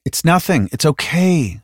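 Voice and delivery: high-pitched, soothing reassurance; calm a frightened friend. A narrator's reading. Spence comforting panicking Halliday, soothingly. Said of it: "Spence said soothingly".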